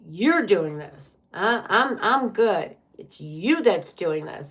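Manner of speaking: mildly acted defensive accuser, swooping up on "I'm"; blame-shifting. Reader voices a partner blaming you, mock defensive. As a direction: lightly mimic someone pinning the blame. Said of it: "twist it and point it onto you".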